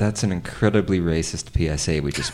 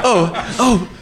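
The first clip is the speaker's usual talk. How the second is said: nervous laughter; 7 dB louder, much faster than usual. Acted. Nervous laughing handoff to professor.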